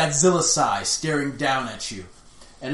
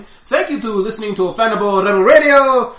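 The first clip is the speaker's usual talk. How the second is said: podcast spiel; 7 semitones higher, 11 dB louder than usual. Shown as a demonstration. Host reading the show sign-off to listeners, announcer style. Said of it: "say the spiel".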